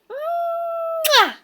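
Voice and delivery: high, long drawn-out kiss sound; demonstrated kiss sound. Shown as a demonstration. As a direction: model a big smacking kiss for the bird.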